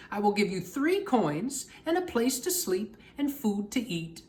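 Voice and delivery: lightly voiced old witch; Stregonona. Stregonona gives orders.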